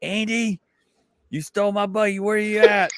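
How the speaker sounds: high, loud frantic yelling across the store; retold yell hunting for a lost buggy; yelling for Andy. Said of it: "and I start yelling".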